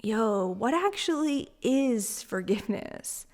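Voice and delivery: slow, hushed whisper to yourself. Retold or imitated. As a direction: whisper the question like a secret. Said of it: "I'm like".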